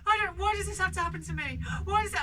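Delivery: high, loud mock wail with a catch; wailing child. Mum imitates daughter wailing over her cut toe. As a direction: ham up a sobbing little girl. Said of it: "She was going".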